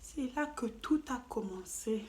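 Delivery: breathy whispered teaser line; dramatic whisper. Acted. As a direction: whisper it like a secret before the story. Dramatic opening of the story.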